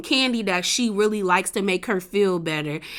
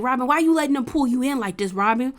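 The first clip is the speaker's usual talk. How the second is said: mock exasperated husband, higher and singsong; exasperated nagging; 3 semitones higher than usual. Husband on the phone scolding his wife, mock exasperated. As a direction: pester her rapidly in a raised pitch, imitating him.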